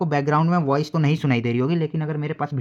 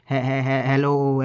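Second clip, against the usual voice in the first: stuttered, cutting "हे-, हे-, हे-, हेलो"; a distorted hello on a bad connection; broken phone line; 4 dB louder, much slower than usual. Shown as a demonstration. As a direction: imitate a choppy call breaking up. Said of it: "ऐसे सुनाई देगी".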